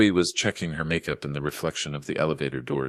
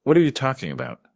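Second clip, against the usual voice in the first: fast, high, louder outburst; panicked snap; 10 semitones higher, 6 dB louder, faster than usual. A narrator's reading. Daughter challenges her father's refusal, snapping in shrill panic. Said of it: "Chloe snapped".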